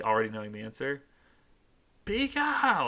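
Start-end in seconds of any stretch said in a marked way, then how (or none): 2.0-2.9 very high squealing shout; screaming Pikachu. Acted. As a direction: scream it like the tiny mascot. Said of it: "he's just screaming it".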